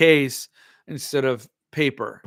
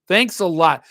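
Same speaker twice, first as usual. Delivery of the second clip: possibly sarcastic; 2 semitones higher, 5 dB louder than usual. Real, not acted. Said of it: "I would stay away from thanks a lot".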